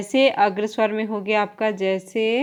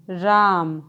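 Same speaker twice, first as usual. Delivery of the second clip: calling out; 4 semitones lower, much slower than usual. Shown as a demonstration. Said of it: "नाटक में हम लोग बोलते हैं".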